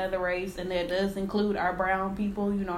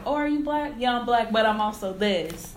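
mock exchange; 3 semitones higher, 3 dB louder than usual. Acting out a mixed-identity exchange.

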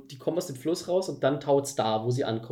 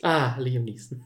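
dreamy sigh; slower than usual. Real, not acted. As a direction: sigh "Liam Neeson" slowly, lovestruck. Swooning sigh.

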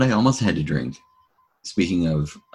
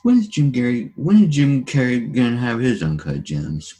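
excited; 6 semitones higher, 4 dB louder than usual. Real, not acted. Mock announcement question.

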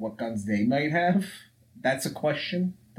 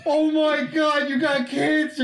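mock shock; 13 semitones higher, 4 dB louder, slower than usual. Acted thug reacting to cancer ray.

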